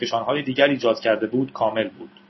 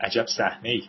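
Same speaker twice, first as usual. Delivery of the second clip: softer, understated remark to oneself; inward aside; 6 dB quieter than usual. A narrator's reading. Son sees father in an apron, quiet inward aside. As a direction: drop the volume as if only thinking it. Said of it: "دیوید در دل گفت".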